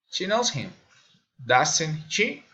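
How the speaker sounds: "him" falls, then "doesn't she" rises; falling-rising tag question. Shown as a demonstration. Learner demonstrating tag questions, falling then rising. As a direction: drop on "him", lift "she" at the end. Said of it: "falling or raising intonation".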